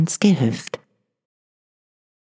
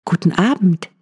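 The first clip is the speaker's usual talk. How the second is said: higher, lightly lifted wife's voice; farmer's wife answering, higher; wife's greeting; 6 semitones higher, 4 dB louder, faster than usual. A narrator's reading. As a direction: greet the husband brightly, pitched up. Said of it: "sagte die Frau".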